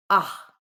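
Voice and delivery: open, loud "Ah"; long A sound. Shown as a demonstration. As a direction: say "Ah" as one clear open vowel. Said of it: "that long A sound".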